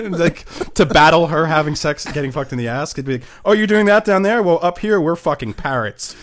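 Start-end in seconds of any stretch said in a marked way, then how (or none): 3.4-6.2 mock taunting. Voicing himself taunting the neighbor.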